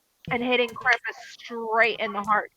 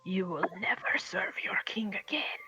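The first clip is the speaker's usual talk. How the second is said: eerie unvoiced whisper; hissed threat from a disembodied voice; 3 semitones lower, 12 dB quieter than usual. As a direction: breathe it like a ghost in the head. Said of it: "You hear the voice say".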